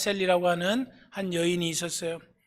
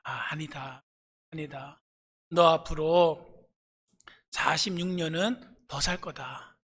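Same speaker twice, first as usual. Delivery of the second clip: a hint of a calm God speaking; gentle, unhurried answer as God; lightly voiced God telling her she will live on; God's reply; 2 semitones lower than usual. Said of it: "그랬더니 하나님이".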